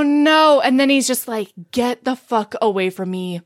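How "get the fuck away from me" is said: retold breakup, sinking lower; low, final rejection. Joe ending it before going inside, low acted finality. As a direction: act out giving up on her, subdued and low.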